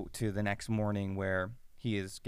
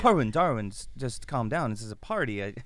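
higher, coaxing voice to calm a friend down; placating; 4 semitones higher than usual. Retold or imitated. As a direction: soothe an angry guest at a party. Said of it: "And he's like".

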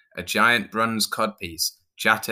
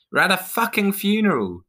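high-pitched exasperated yell, held back slightly; screamed; 13 semitones higher, 4 dB louder than usual. A narrator's reading. Clown yells at pirate during funeral, high scream. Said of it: "Jane screamed".

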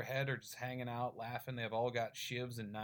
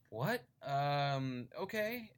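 confused surprise; 4 semitones higher, much slower than usual. Retold or imitated. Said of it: "He's like".

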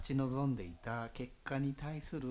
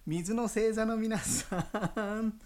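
high, slow loud call; calling from far away; 12 semitones higher, 7 dB louder, slower than usual. Acted. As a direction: stretch it out like a distant call. Calling the water signs again.

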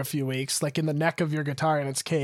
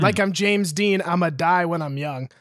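dramatic reading. Acted. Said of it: "dramatic reading of the lyrics".

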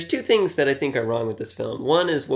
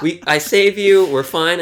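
laughing mock line; 4 semitones higher, 6 dB louder than usual. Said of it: "And I'm like".

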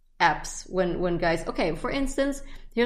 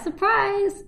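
mock surprise; 13 semitones higher, 3 dB louder than usual. Real, not acted. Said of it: "announcing a surprise".

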